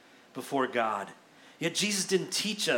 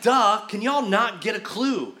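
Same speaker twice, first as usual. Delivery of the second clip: loud, higher-pitched mock scolding; exasperated; 6 semitones higher, 6 dB louder than usual. Acted exasperated Jesus chiding disciples.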